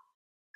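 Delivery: surprised gasp. Shown as a demonstration. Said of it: "it just pops up at you and you go".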